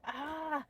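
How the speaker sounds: a small high "Ah", not a scream; mild retold cry. Telling viewers how she cried out when stung, a small yelp. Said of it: "I wasn't screaming. I was like".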